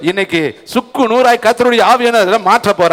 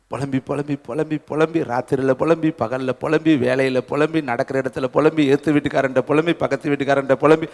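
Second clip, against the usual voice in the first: mock moaning; 8 semitones lower, 7 dB quieter than usual. Preacher mocks endless lamenting.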